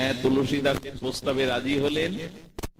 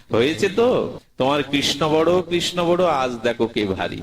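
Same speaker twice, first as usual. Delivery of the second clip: gloating taunt; 4 semitones higher than usual. Acted. Tulsidas gloats over Surdas.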